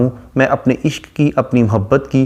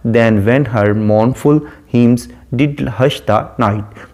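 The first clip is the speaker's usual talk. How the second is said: drawn-out, deliberate reading of the verse; slow poem recitation; much slower than usual. Shown as a demonstration. Teacher reading the sonnet to students, slow recitation. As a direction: linger over every word of the line.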